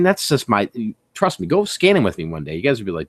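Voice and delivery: normal talking voice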